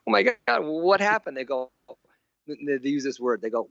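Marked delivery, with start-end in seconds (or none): 0.1-1.4 higher, alarmed cry; a retold jolt of alarm. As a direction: gasp it out as if something went wrong. Retelling his alarmed reaction.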